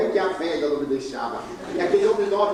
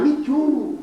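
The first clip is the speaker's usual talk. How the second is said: high, loud shout in English; shouted back; 11 semitones higher, 3 dB louder than usual. Retold or imitated. Couple shouts back to the speaker from afar, loud. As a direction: yell it back from down the street. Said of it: "Eles gritaram".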